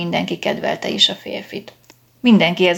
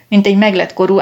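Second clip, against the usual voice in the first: ordinary delivery, nothing marked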